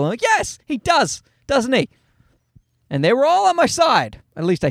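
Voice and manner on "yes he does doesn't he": drip with knowing sarcasm, pitched way up; sarcastic agreement. Retold or imitated. Sarcastic reply to volunteers.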